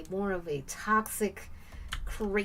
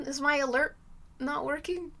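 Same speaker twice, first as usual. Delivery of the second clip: ordinary delivery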